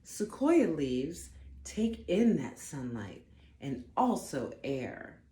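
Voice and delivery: gentle storybook read-aloud; unhurried storytime narration; reading to children. Acted. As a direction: read it like a bedtime picture book. Reads picture book aloud.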